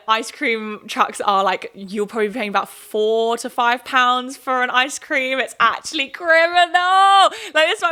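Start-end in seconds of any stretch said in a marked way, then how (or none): 5.4-7.9 outraged. Real, not acted. Vlogger outraged at London ice cream prices, exclaiming. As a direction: sell it as a genuine outrage.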